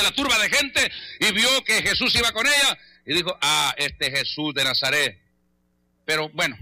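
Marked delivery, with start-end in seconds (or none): 3.4-6.6 musing to herself. Retold or imitated. Canaanite woman spots Jesus in the crowd, musing.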